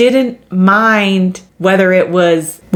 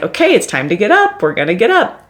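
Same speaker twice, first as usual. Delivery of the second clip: cheerleader coach voice; 4 semitones higher, faster than usual. Retold or imitated. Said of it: "that is our cheerleader or coach".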